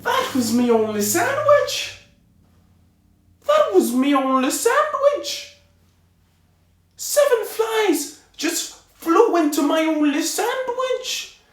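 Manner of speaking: put-on high, loud, furious squawk in an accent; angry tailor. Tailor ranting at the flies in his sandwich, high and furious. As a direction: rant at the flies in a shrill put-on voice.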